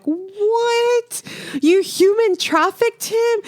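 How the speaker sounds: high, incredulous mock outrage; retold shock. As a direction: act appalled, pitch jumping right up. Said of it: "He's in shock".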